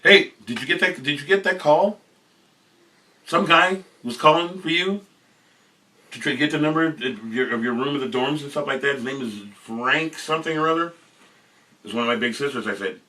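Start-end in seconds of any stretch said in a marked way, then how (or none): 0.0-10.9 big sister. Retold or imitated.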